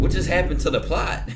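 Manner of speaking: loud, high outburst breaking into a laugh; stunned disbelief. Real, not acted. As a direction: blurt it out, floored by the twist. Stunned by the husband twist.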